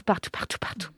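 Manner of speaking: word repeated, fading to a whisper; fading echo. Acted. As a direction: let it echo away into silence.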